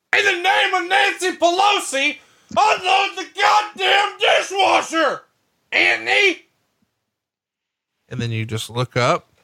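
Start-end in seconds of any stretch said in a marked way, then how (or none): 0.1-6.4 very high, shrill, heated, fired-up raised yell. Acting out her final demand after she gets fired up, retelling her raised voice. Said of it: "now she's really raising her voice".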